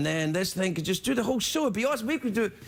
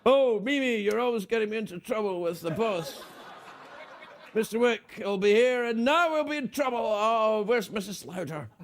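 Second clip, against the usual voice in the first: puppet voice. Acted. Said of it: "I might bring back the puppets".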